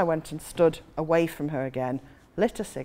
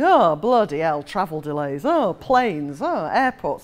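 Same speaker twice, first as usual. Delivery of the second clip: mock grumbling; 4 dB louder, slower than usual. Acting grumbling delayed passengers.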